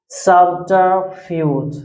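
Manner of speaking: subterfuge said slowly, SUB-ter-fuge, each syllable clear; slow clear pronunciation. Shown as a demonstration. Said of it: "That is subterfuge".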